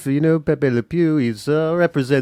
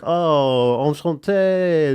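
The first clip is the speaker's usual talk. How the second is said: put-on drawn-out, French-accented charm; much slower than usual. Frenchman greeting a shy woman, French accent. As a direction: say it slowly with a suave French accent. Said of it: "talk a little bit with a French accent".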